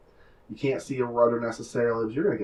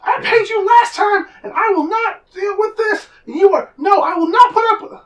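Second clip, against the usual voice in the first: shrill, very high, loud angry character voice; high-pitched angry; 14 dB louder than usual. Acted. Game master voices an overheard quarrel about payment, high-pitched and angry. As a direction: argue furiously in a squeaky-high shout. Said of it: "very high-pitched, um, angry-sounding voice".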